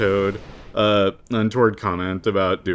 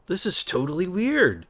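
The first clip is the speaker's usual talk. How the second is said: imitating Sora; 11 semitones higher than usual. Quoting Sora's reaction.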